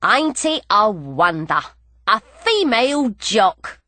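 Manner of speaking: lightly voiced cocky Cockney, slow; cocky grin in the voice, drawn out; cocky little jockey. A narrator's reading. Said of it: "a little man's cocky grin".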